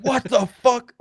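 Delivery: high-pitched mock disbelief; shocked reaction. Retelling unknown units turning up in the game, mock shocked. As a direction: squawk it in exaggerated bafflement. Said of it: "and I'm like".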